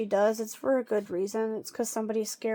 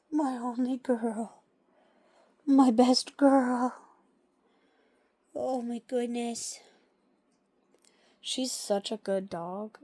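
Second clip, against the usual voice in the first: slow, gentle doting voice; tender slow praise; slower than usual. Real, not acted. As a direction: dote on her slowly.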